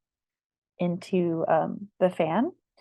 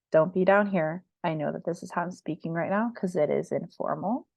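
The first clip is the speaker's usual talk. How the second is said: vocal fry. Shown as a demonstration. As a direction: drop into a creaky fry. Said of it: "this is called vocal fry".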